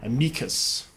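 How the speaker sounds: amicus with a soft k for the C; classical pronunciation. Shown as a demonstration. Host contrasts classical Latin with church, classical pronunciation. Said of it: "in classical you say".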